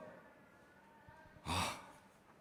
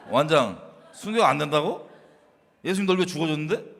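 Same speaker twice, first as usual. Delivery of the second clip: pushy, preachy reproach; zealot scolding; 3 dB louder than usual. Retold or imitated. Zealot pressing a young believer, mock scolding. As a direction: press him hard and fast. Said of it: "라는 식으로 완장질로 여러 조졌습니다".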